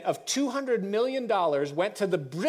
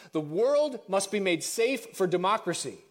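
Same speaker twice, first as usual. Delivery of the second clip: "The world must be made safe for democracy" in a lightly voiced stately address; presidential speech voice; 2 semitones higher than usual. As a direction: read it as a formal proclamation. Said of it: "I'm going back to my voice now".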